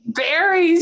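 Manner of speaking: mock New York drawl; New York accent. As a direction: say it like a New Yorker. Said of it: "Very New York City".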